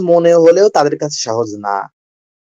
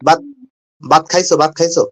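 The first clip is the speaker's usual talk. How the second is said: Khulna dialect; faster than usual. Retold or imitated. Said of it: "আমরা বলি কি".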